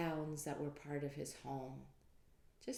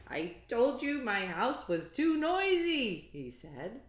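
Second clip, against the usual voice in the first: higher, louder exasperated rant; angry Peter; 9 semitones higher, 12 dB louder, slower than usual. Acted. Peter ranting at the wise men, exasperated. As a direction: complain in rising frustration. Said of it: "Now, Peter was angry".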